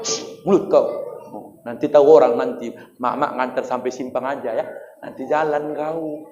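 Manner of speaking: put-on hushing the child so nobody hears; hushed mother. (ibu berbisik menyuruh anak diam)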